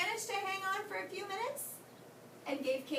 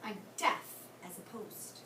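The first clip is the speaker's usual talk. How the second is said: loud grumpy owl, much louder; scratchy owl; 3 semitones lower, 10 dB louder, slower than usual. Acted. Woken owl to Katie, loud and grumpy. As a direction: bark it like a cranky old owl. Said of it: "oh, his scratchy voice".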